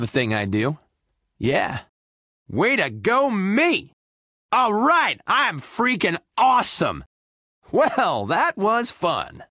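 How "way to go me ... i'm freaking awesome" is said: high, elated cheer; triumphant boast. Acted. Winner cheering for himself, triumphant boast. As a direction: crow over your victory. Celebrates a win.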